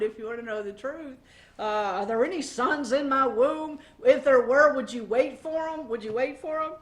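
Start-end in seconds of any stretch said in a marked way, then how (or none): 2.0-6.7 mildly grumpy, brushing them off; a hint of a grouchy mother-in-law; rude and grouchy. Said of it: "It's rather rude".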